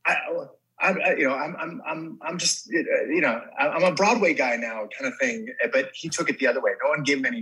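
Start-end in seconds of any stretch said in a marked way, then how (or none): 0.1-4.9 mild mock Tyson. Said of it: "he's supposed to be like".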